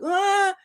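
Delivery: high, startled little ah; panicked gasp. Retold or imitated. Author caught unready by the friend's call, high startled gasp. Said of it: "And I was like".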